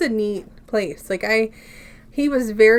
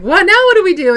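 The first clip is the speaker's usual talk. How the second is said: mock bewildered; 9 semitones higher, 10 dB louder, faster than usual. Retelling friends at New Year's.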